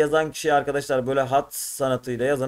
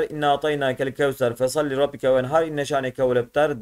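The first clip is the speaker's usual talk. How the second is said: even, devout Arabic recitation; sura recitation. Acted. Teacher reciting Kevser sura for the class, in a devout recitation.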